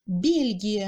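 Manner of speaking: "Belgique" as Russian Бельгия, clear ye; clear stressed E. Shown as a demonstration. Teacher showing stressed ye in "Belgique", said clearly. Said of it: "on entend nettement le Y".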